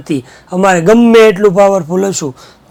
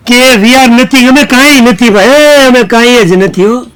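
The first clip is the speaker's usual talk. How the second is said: higher, louder and slowed, like a humbled machine; pleading machine voice; 4 semitones higher, 4 dB louder than usual. Acted. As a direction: beg as the machine that is nothing. Machine confesses it is nothing.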